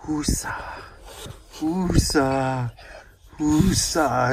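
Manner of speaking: calming woosa. Shown as a demonstration. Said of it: "do the ear thing like ... Bad Boys".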